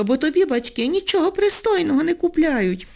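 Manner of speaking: haughty. A narrator's reading. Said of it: "зверхньо кинула їй Ніночка".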